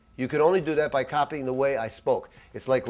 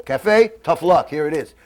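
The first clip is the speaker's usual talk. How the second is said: curt waiter; 5 dB louder than usual. Retold or imitated. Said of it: "they're gonna say".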